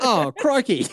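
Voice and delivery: laughing put-on Australian; mock Australian accent. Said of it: "you've turned Australian".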